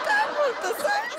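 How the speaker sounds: surprised. Acted. Maid reacts to teasing.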